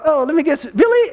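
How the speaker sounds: high, knowing "Billy?"; teasing guess. Retold or imitated. Church ladies teasing about weekly flowers, high and knowing. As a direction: tease him with a knowing guess.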